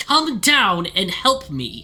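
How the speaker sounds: haughty, imperious tone. The voice continues, calling to the listener, a bit imperious. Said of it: "that sounds a mite imperious".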